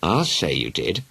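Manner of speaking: slow, dry sarcastic mother. Acted. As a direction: say it with a dry sneer. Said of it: "rather sarcastically".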